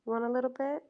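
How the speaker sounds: soft, quiet pet-mom voice; Perry Mama pet voice. Real, not acted. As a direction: coax the dog like Perry Mama. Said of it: "Perry Mama says".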